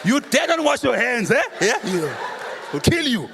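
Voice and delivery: hammed-up vengeful ancestor, half laughing; angry ancestor spirit. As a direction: bark it out like an offended ghost from the grave.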